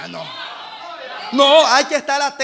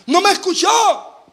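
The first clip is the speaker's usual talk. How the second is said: slow, emphatic complaint; 6 semitones higher, 4 dB louder, slower than usual. Acted. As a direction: stretch each word, higher and louder.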